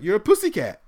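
high, sing-song pussycat; innocent daughter voice. Retold or imitated. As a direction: play it innocent and cheerful. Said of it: "She was like".

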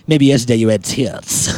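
low creepy delivery. Shown as a demonstration. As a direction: say it like a lurking creep. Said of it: "That's my creepy voice".

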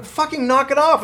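high-pitched exasperated reprimand; retold indignant scolding. Rider telling off a girl dropping food on the subway, retold indignant scolding.

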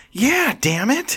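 grudging agreement. Retold or imitated. People in the middle agreeing.

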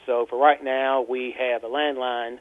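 caller on a landline; phone line sound, narrow and thin; over a landline phone. Real, not acted. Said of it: "I am actually calling you from a landline".

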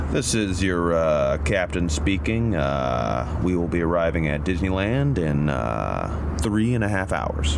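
low, slow captain voice from the throat; pilot announcement voice. Shown as a demonstration. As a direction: push it from the back of the throat. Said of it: "Now say this".

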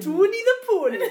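loud, high Geordie Tawny the Pony; hammed-up Geordie Tawny the Pony; Geordie accent. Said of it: "when I do the accent".

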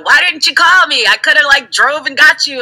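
high, mock concerned pleading; worried friend. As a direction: play the upset friend who wanted to help. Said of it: "And then you're like".

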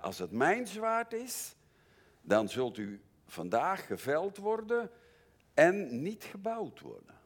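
pitched high and loud, a sharp warning; high warning cry. Real, not acted. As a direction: cry it out as a stark warning to the church. Preacher warns congregation. (hoge, luide waarschuwing aan de gemeente)

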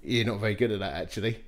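soft, low inner voice; a quiet voice inside the head, dry and matter-of-fact. Retold or imitated. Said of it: "this deep inner conviction said".

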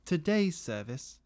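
lightly done broken French chef; mild fake French. Chef Gary boasts about his stew, mock French. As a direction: keep a hint of the fake French. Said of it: "broken French accent".

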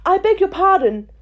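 humbly. A narrator's reading. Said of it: "said Alice very humbly".

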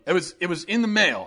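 ordinary delivery

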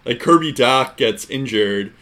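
light Boston accent. Real, not acted. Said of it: "that was a very Boston accent there".

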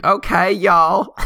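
high, drawn-out mock southern scream; imitated scream. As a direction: mimic her screaming it, high and slow. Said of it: "She just screamed".

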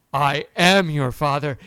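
Darth Vader voice. Retold or imitated. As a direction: lean on each word like Vader. Darth Vader line retold.

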